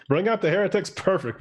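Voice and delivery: high-pitched mock call through laughter; laughing playfully. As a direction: play along with the joke, laughing. Playing along with heretics joke.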